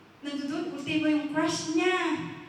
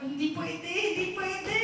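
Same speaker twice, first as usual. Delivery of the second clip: higher, repeated refusal with mild panic; acted fear; 5 semitones higher than usual. Frightened man desperate to hide his sins, panicky. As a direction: insist with pitch climbing on the repeat. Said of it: "talagang grabe yung takot niya".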